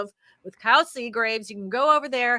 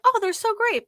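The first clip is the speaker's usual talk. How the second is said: gushing, much higher pitch; mock enthusiasm; 11 semitones higher than usual. Woman recalling her old love of apps, mock enthusiasm. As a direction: gush like a smitten app fan.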